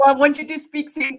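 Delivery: mock German-accented English. Wife answers husband back in playful German accent. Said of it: "speak the English language with a German accent".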